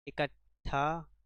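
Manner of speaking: इकट्ठा said slowly, ट्ठा stressed; teacher spelling इकट्ठा out by ear; slow and clear. Shown as a demonstration. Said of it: "टा नहीं होगा".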